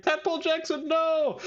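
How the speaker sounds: very high mock wail of grief; hammed-up high-pitched despair; Erica's anguished cry. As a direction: squeal it like a cartoon heartbreak. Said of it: "a little panel of Erica being like".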